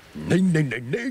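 a sharp, loud no no no; loud denial. Acted. Protesting denial in scene.

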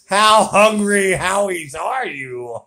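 teasing shout. Real, not acted. Teasing loud slow call.

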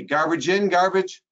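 GARBAGE IN, GARBAGE with rising, expectant pitch, left unfinished; fill-in prompt. Shown as a demonstration. Trainer cueing the audience to finish, rising prompt on GARBAGE. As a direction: climb on the second GARBAGE and leave it open. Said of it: "Finish this with me".

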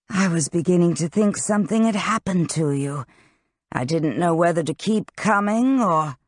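lightly voiced Crow, relieved and explaining.

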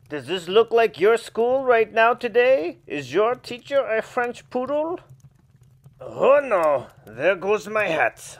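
a lightly put-on prim poodle reader; a fussy French-flavoured storyteller aside; snooty poodle voice.

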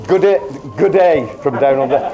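a faint Australian accent, barely attempted; mild Australian accent. Reading his mate's Australian email in a weak Australian accent. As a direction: try an Australian greeting and give up halfway. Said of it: "That's as far as my Australian accent goes".

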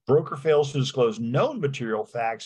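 known を際立たせる; stress on known. Shown as a demonstration. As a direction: hit known in the phrase. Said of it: "and I emphasize the word known".

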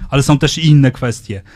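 ordinary talk, nothing marked

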